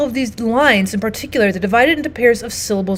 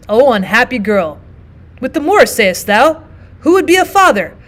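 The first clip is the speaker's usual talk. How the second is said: grieving father Brabantio; 3 dB louder than usual. Acted. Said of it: "He says".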